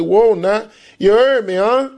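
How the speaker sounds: New Orleans slang. Retold or imitated.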